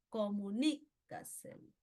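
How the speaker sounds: "comunícaselo" slowly, comu-NÍ... caselo; stress fourth-from-last syllable. Shown as a demonstration. Teacher giving a sobreesdrújula example, "comunícaselo" stressed on NÍ. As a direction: lift NÍ in "comunícaselo", pause, let caselo fall away. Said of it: "el acento está en la tras antepenúltima".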